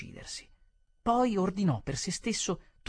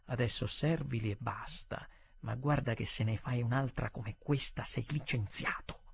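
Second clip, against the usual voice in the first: hushed, lower-pitched warning; 4 semitones lower, 6 dB quieter than usual. Acted. Manager warning the waiter after a complaint, low voice. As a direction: warn him quietly, keep it down. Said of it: "mi disse a bassa voce".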